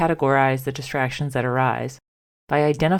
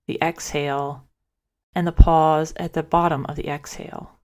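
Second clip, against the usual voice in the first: calm, measured guidance with long pauses; guided meditation; 2 semitones higher than usual. Acted. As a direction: lead listeners gently through a breathing practice, leaving space after each phrase. Leads a guided breath meditation.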